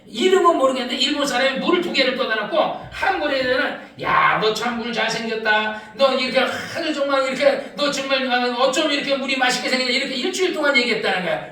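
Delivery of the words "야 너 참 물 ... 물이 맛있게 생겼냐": admiring praise. Retold or imitated. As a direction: lower your voice and praise it fondly. Praising water in retold experiment.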